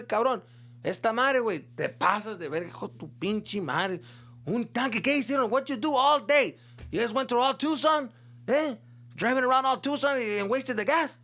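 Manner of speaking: high, loud furious father rant; dad ranting. Retold or imitated. Angry dad scolding his son over the empty tank, high and loud. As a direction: tear into your son over the gas.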